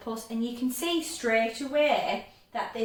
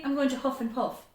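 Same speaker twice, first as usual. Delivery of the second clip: too fast; 2 semitones higher, faster than usual. Shown as a demonstration. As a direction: huff and puff rattled off quickly. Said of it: "It's too fast".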